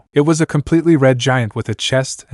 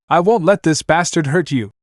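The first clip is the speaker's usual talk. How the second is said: higher, fierce shout; protective shout; 5 semitones higher than usual. Acted. Naruto to Anna, protective shout. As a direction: shield her. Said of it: "he shouted".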